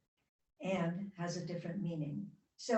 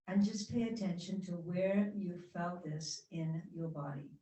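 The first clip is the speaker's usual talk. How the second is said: guided reflection. Acted. Teacher guiding the class through a reflection, calm. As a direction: lead the group inward gently. Leads a short eyes-closed reflection.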